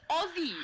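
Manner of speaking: "Aussie" with a buzzing Z in the middle; voiced Z for the double s in "Aussie"; Z sound. Shown as a demonstration. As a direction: say "Aussie" as Ozzie, never with an S sound. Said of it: "with a Z sound".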